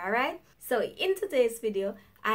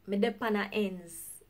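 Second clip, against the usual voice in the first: Jamaican patois phrase. Shown as a demonstration. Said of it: "Jamaicans will say".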